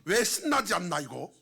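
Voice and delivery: loud, high-pitched preaching; urgent pulpit exhortation; forceful preaching. Real, not acted.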